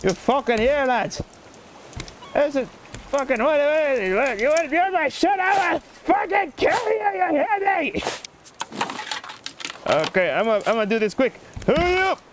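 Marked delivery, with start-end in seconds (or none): 0.0-8.0 mock-furious Irishman climbing high; Irish accent. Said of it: "speaking like an Irishman". 11.7-12.2 high, urgent Irish cry; put-on Irish holler; Irish accent. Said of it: "speaking like an Irishman".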